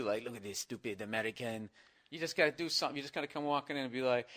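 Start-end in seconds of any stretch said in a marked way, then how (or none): 0.2-1.7 put-on hushed French-accented sneer; mock French disdain. French people eyeing an American, hushed mock French accent. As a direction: mutter it low-key in a put-on French accent. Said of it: "when they're looking at you".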